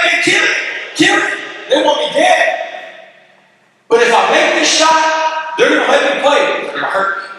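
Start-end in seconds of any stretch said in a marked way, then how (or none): 0.0-2.5 very high mock screaming chant; screaming gang. White gangs screaming from the sidelines, high mock chant. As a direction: chant it like gang members cheering for a kill. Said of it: "They're over there screaming".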